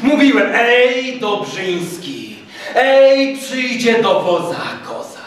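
high, taunting triumph; blustering major savouring revenge; gloating, vengeful major. A narrator's reading.

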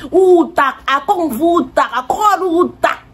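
high mocking taunt; ridiculing. Tim's mom taunts her for losing money, mockingly. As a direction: jeer it like a scornful mother. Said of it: "this woman was ridiculing me".

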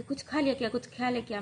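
imitating a panicked mother; mother's alarmed cry. Mother woken at night, frightened, asking what her daughter swallowed. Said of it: "सबको चिल्ला के उठे थे".

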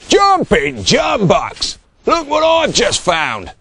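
loud, high shouted exclamation; roared. A narrator's reading. Bungo calling to the other shearers, roared. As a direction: roar it out in astonishment. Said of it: "roared Bungo".

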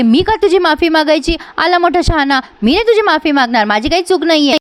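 mock-defiant refusal; defiant retort. Heroine argues with the goon.

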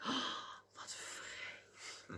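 hushed mock horror; barely audible, shocked whisper; scandalised whisper. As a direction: gasp it under your breath. Voicing shocked, judging onlookers.

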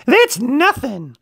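put-on high, slow know-it-all teen. A narrator's reading. Littlest teen remarks.

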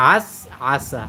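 "আস আসা" with each "আ" pressed from the throat; pressed ayn. Shown as a demonstration. Teacher repeats the word for learners, pressed "আ" in "আস আসা". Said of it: "ডাবি উচ্চারণ করতে হয়".

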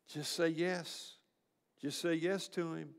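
soft, slow coaxing to a dying man; gentle bedside urging. Retold or imitated. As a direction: murmur it close, softly pleading. Pastor at dying person's bedside.

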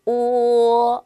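오 as one pure rounded sound, held and loud; Chinese o. Shown as a demonstration. Teacher models 오 for learners, loud and held. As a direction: model 오 with rounded lips, not English-style. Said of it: "오가 아니라 어떻게 읽어야 된다".

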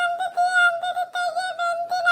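pleading cry. Acted. Child begs to remove fire.

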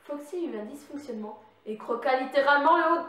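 loud, strange put-on narrator voice; weird voice. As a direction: growl the line in a creepy voice. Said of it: "je prends une voix très bizarre".

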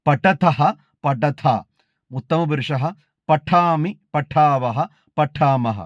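measured, even chanting of each case form; model recitation. Shown as a demonstration. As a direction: recite the declension slowly, like a student at a recitation contest. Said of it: "കേൾക്കാം". (മാതൃകാ അവതരണം, ഓരോ രൂപവും താളത്തിൽ ചൊല്ലുന്നു)

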